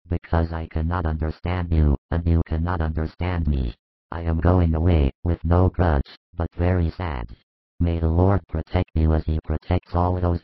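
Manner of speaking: low, cold, offended elder; hostile intolerance. A narrator's reading. Joseph taking offence and leaving, coldly hostile. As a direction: leave with wounded, sour dignity. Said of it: "his hostile intolerance comes to light".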